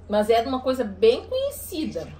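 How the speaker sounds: whispered aside; whispering. Real, not acted. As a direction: whisper the hint so she can't hear. Hint hidden from producer.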